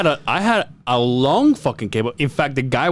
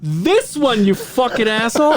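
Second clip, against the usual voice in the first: mock angry mom; 7 semitones higher than usual. Mother yelling at son.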